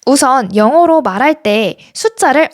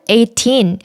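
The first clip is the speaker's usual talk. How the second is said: put-on "eighteen" with TEEN stressed. Shown as a demonstration. Teacher modelling numbers for learners, stress on final syllable. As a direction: lean on the end of "eighteen". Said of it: "뒤에 나오는 틴에 강세를 주어서".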